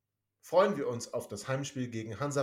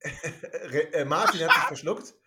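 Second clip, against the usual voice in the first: giggling through the words; can barely get it out for laughing; 4 dB louder, slower than usual. Real, not acted. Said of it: "alle noch völlig am Lachen".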